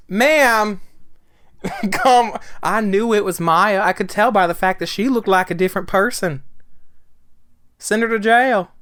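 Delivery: loud, high-pitched exasperated protest; mock outrage. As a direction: cry out in incredulous mock indignation. Mock outrage at absurd testimony.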